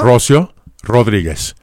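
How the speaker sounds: "Rocío" as RO-syo, first syllable stressed; name read without accents. Shown as a demonstration. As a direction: read "Rocío Rodríguez" as if no accents were written. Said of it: "La forma en que lee su nombre".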